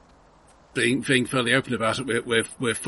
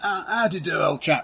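posh English gent; 7 semitones higher than usual. Acted. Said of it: "As I'm demonstrating".

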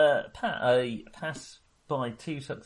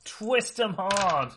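slow, savoring, higher pitch; gleeful slow relish; 7 semitones higher, much slower than usual. Acted. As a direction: drag it out with relish. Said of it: "twist 'em".

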